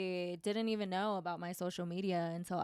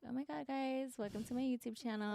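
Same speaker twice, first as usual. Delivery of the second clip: influencer voice; 5 semitones higher than usual. Pretend. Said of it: "just being like".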